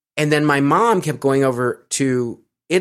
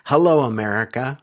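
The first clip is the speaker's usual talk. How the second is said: lightly imitated Italian accent; retold greeting in an Italian accent; heavy Italian accent. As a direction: quote a cousin with a touch of Italian accent. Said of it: "in a very heavy Italian accent".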